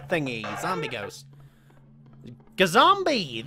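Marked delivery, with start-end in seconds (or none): 2.6-3.5 silly exclamation. Acted. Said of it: "That's what Jester said!".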